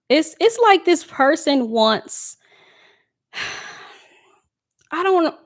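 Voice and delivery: chewing gum while talking; words round a piece of gum; mouth full. Real, not acted. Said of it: "I got gum in my mouth".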